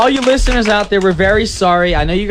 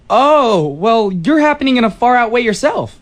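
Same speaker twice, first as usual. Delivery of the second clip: retro seventies guy. Acted. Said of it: "that was the character I was going for".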